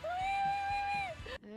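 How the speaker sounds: very high panicked wait; shrill laughing panic. Real, not acted. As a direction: squeal it out.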